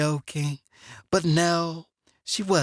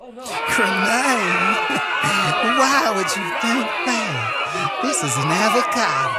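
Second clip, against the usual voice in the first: mock innocent; 5 semitones higher, 4 dB louder than usual. Feigning innocence about grenade.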